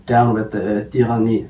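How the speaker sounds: lightly put-on French accent; mock French revolutionary slogan in a French accent. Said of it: "You just make a French accent".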